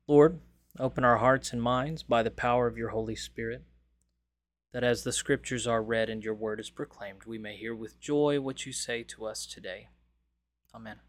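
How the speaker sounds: calm, earnest prayer voice. Acted. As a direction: pray it sincerely to God. Opening prayer before scripture reading.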